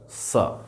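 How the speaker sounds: "स" as a clear S sound; sound demo. Shown as a demonstration. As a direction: sound out "स" by itself. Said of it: "उसका उच्चारण होगा".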